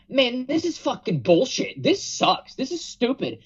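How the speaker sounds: high, whiny fan griping; mock annoyed complaint. Shown as a demonstration. Explaining mad bullshit to co-hosts, high whiny griping. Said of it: "there's a difference between".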